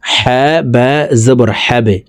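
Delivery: measured spell-out of "হ্যাঁ বা জবর হ্যাবে", ending on a bounced b; practical spelling demo. Shown as a demonstration. Teacher demonstrating to viewers how letters join, spelling demo. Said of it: "আমি এখন practically আপনাদেরকে বলে দিচ্ছি".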